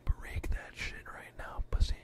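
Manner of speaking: slow taunting whisper. Real, not acted. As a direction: hiss the taunt low and slow.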